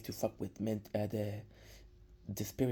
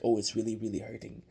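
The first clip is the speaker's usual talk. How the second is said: hammed-up pain; 4 dB louder than usual. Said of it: "Kenny plays up the role like".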